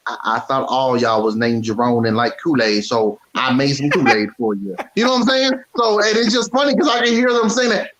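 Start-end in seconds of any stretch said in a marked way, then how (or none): 0.1-4.7 much lower, dopey clueless voice; ignorant white guy. Retold or imitated. Clueless guy explaining himself to Black friend, low dopey voice. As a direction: play a clueless well-meaning bigot. Imitating ignorant guy's quote.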